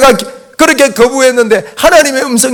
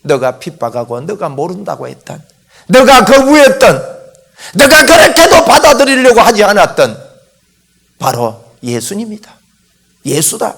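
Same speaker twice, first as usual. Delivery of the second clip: the Lord answering Saul. Acted. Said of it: "그때 주님이 그럽니다".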